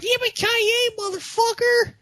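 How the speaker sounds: high far yelled catchphrase; movie catchphrase. Retold or imitated. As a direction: shout it like the movie hero.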